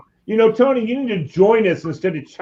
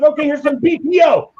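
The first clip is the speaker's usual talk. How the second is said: high, shouted imitation of stage announcer; frontman announcing; 13 semitones higher than usual. Singer springing a different song on crowd, shouted hype. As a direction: shout it out like a band leader. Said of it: "He goes".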